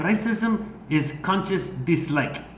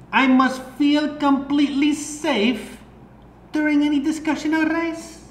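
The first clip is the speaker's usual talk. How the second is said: higher, hammed-up German accent; movie villain german accent; 6 semitones higher than usual. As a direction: read it like a cartoon German villain. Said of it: "read this whole thing in a German accent".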